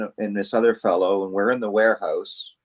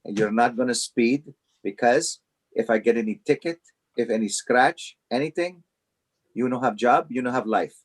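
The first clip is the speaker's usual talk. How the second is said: lightly voiced Italian boss, stern warning in broken English; a hint of an Italian accent, laying down the law; imitating an Italian boss. Italian boss warning young employees in a mock Italian accent. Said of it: "in his deep Italian voice".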